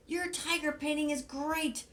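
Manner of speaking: high, loud cheery bird voice; excited high Big Bird. Acted. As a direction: sing out the praise brightly. Big Bird praising Ernie.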